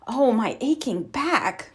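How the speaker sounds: a slow, soft groan of tired aches; mother groans getting up from the floor, slow and weary. A narrator's reading. Mama groans to herself about her back, slow and soft. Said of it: "groaned Mama".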